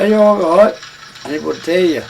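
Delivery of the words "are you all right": high, loud call over noisy wagon wheels; shouting. Retold or imitated. Traveller calling to the wagon behind over the wheels, loud shout. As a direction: yell it back down the line of wagons so they can hear. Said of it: "one would be shouting at the back of the other".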